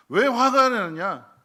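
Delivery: slow, loud, high rhetorical question; emphatic question. Acted. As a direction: drag it out for emphasis. (천천히 크게 강조하는 질문)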